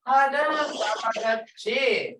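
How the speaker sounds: Hadam talagachi said slowly and kindly, as an invitation; friendly invitation. Shown as a demonstration. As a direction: ask the visitor warmly to come again. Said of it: "Come back again to a visitor".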